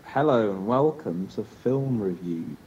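mock show host. Mock film review host intro.

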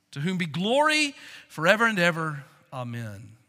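a preacher reading the text; scripture reading. Acted. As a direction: read it out like holy writ. Reads scripture aloud from Galatians.

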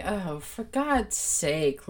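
slow, drawn-out exasperated groan of words; mock weariness, every word stretched out; retold exasperation. Host recalls reacting to the robbery claim, slow exasperation.

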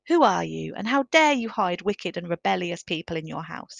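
loud, indignant challenge from the bench; a governor's loud accusing bark; angry demand. Acted. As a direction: bear down on him like an outraged governor. Governor confronting Alban.

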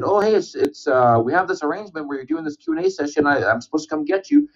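high, hushed organizer voice, sneaking over; sneaky organizer. Retold or imitated. Organizer sneaks over to fetch the wrestlers, mock hushed. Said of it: "snuck over to the table and said".

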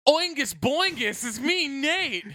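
high, slow boingy greeting; bouncy springy boingy voice. Pretend. Silly voicemail parody.

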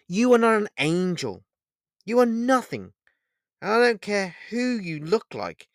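high, loud near-scream in rising anger; almost scream it into his face. Acted. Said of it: "almost screaming into the man in black's face".

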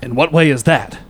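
hushed detective question; whisper. Acted. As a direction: whisper it close.

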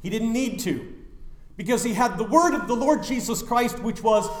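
ordinary delivery

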